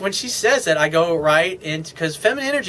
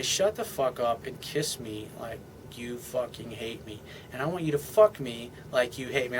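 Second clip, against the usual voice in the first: masculine command; 4 semitones lower, 8 dB quieter than usual. Acted. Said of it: "in a masculine way".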